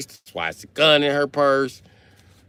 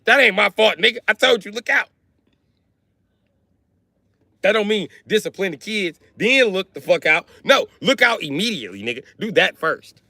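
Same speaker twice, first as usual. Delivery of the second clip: indignant argument; 9 semitones higher than usual. Retold or imitated. Kid arguing with step-grandpa over the crash, high and outraged. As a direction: argue back like it's not your fault.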